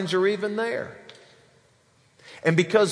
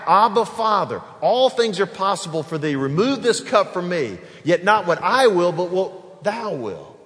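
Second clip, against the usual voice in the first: louder, pleading cry to the Father; 3 dB louder than usual. Retold or imitated. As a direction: call out Abba Father with feeling. Jesus crying out in Gethsemane.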